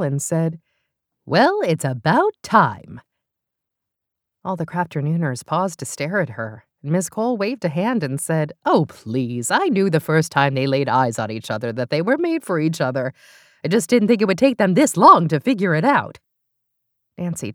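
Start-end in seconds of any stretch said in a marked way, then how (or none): 1.3-3.0 put-on old lady voice. Miss Cole dry remark. 8.6-16.2 put-on dismissive old lady. Miss Cole dismissive.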